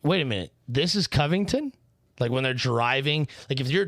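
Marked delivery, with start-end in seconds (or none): 0.0-1.7 mock amazement rising into the question; incredulous double-take, acted out; amazed. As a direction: imitate a baffled newcomer, pitch climbing at the end. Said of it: "everyone's amazed when you're like".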